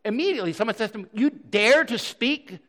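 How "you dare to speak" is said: higher, slow-starting outraged question; acted affront, leaning hard on the opening; indignant challenge. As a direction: rebuke someone for their insolence. Bystander rebukes Paul in retold story.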